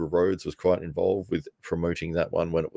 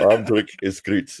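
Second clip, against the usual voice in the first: put-on South African accent; 3 semitones higher, 5 dB louder than usual. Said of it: "from South Africa there".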